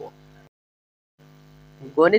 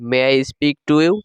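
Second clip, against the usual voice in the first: slow careful English; 4 semitones lower, slower than usual. Shown as a demonstration. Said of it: "এইভাবে বলবো প্রশ্নটি।".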